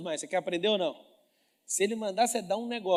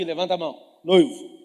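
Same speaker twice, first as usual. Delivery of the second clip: usual speaking voice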